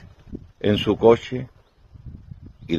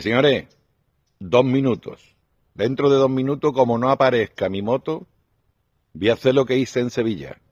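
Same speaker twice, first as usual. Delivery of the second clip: higher, pushier warning to the bar; rising mock threat; 5 semitones higher than usual. Biker warning the bar patrons about his motorbike, mock menace. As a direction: lay down an ultimatum, half-joking.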